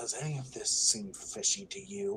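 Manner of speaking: quiet, hushed delivery. Moving over to a friend to talk for a second, lowered voice. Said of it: "just kind of lower my voice".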